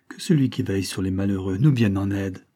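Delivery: low, measured little prayer; pious. A narrator's reading. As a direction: say it as a devout plea. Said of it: "se signa pieusement en disant".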